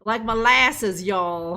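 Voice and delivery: a light, slow Wild West drawl; lightly put-on cowboy Wild West accent. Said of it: "your attempt at the old Wild West accent".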